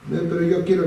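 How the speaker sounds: mock childish whine; whiny child insisting. Son insisting to his father he wants the beach, whiny child voice.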